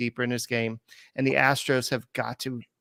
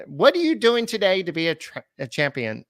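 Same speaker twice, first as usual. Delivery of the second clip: lightly voiced owner catchphrase, higher at first; imitating Drayton McClain; 6 semitones higher than usual. Host quoting the old owner's motto to cohost, lightly mimicked. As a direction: mimic the owner's motivational line. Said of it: "Drain McClain Junior used to say that".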